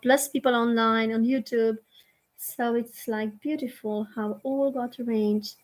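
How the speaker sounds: measured invocation with long pauses; guided prayer. Real, not acted. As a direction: lead the group gently into gratitude. Leads a gratitude prayer.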